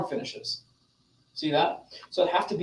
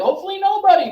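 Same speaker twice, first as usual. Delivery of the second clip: emphatic; 12 semitones higher, 6 dB louder, faster than usual. Real, not acted. Rhetorical answer to class.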